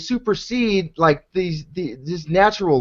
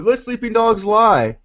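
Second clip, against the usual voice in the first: mock quote; 4 semitones higher than usual. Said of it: "people like you are just going".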